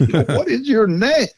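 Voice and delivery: expressive call. Retold or imitated. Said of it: "more expressively".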